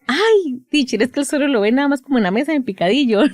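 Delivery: high, excited parent excuse, mock-whiny; a flustered dad explaining to the teacher; quoting a parent. Therapist imitates a father excusing his son, high and excited. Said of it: "y me dice".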